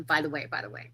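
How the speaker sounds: quick whisper under her breath; whispered aside. Real, not acted. Whispered aside mid-intro.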